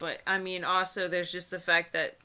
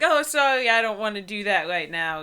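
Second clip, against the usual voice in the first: bright, louder polite brush-off; polite refusal; 3 semitones higher, 6 dB louder than usual. Pretend. Friend suggests a line to refuse a kiss, polite brush-off. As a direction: turn him down sweetly but firmly. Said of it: "You can just be like".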